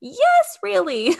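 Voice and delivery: high, loud, animated confirmation; emphatic reassurance. Retold or imitated. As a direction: act out an insistent yes to a doubter. Doula reassuring a surprised client.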